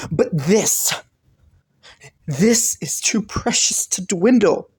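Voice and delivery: hushed, intimate whisper. Acted. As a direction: lean in and whisper it as a secret. Intimate aside in a love confession.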